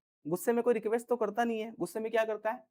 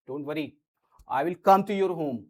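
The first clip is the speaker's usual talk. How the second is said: reassuring promise; 4 semitones lower, much slower than usual. Shown as a demonstration. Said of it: "एक ये हो गया".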